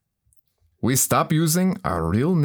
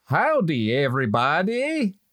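put-on Texan accent. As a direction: greet the room in a hammed-up Texas accent. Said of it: "talking with weird alien accent".

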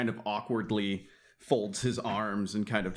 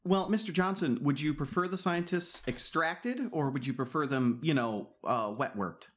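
higher, overly courteous inquiry; mock polite; 5 semitones higher than usual. Runner sounding Mister Johnson out with exaggerated courtesy. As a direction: ask the fixer with exaggerated courtesy.

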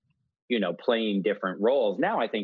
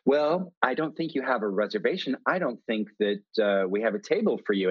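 snooty maitre d'. Retold or imitated. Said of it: "snooty maitre d'".

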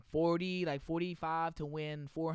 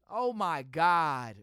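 normal talking voice

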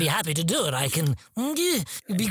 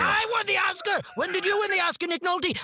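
higher, huffy indignation; mock upset outburst; 10 semitones higher than usual. Pompous actor huffs at Nick Nolte about his Oscar. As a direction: bristle at the rival. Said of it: "I'm getting upset".

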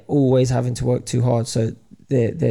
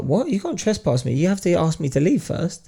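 higher-pitched mock indignation; retold indignant protest; 6 semitones higher than usual. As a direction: imitate a man objecting to a cop. Retold argument with a cop.

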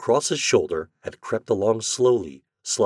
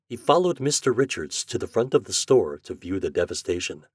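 ordinary delivery

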